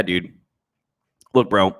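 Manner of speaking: usual speaking voice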